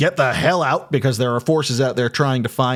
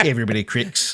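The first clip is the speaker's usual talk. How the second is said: put-on New Zealand accent with New Zealand vowels. Repeating the clones' line "everybody cracks": New Zealand accent. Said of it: "my New Zealand accent".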